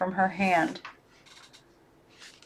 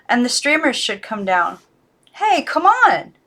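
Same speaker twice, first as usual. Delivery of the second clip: put-on young girl, high and louder, urging; 4 semitones higher, 6 dB louder than usual. Girl urges her silent dolls, high and insistent. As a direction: coax the dolls to get up.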